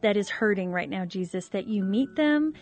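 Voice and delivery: host praying for struggling couples, earnest; prayer. Acted. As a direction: pray over the listeners.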